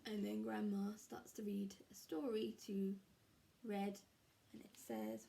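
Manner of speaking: hushed whispered narration. Real, not acted. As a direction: whisper it like a secret.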